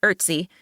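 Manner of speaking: Ötzi, said with an "er" vowel; chosen pronunciation. Shown as a demonstration. Narrator settles on one way to say the nickname, chosen pronunciation. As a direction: say "Ötzi" as ERT-see. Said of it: "I'd pick with the one".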